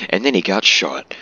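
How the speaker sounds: amused self-quote, lifting THEN and falling at the end; mock casual. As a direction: repeat it as a mock offhand remark. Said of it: "said that so casually".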